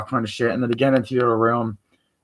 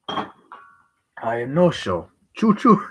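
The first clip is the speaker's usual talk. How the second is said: toy train voice; 3 semitones higher, much slower than usual. Acted.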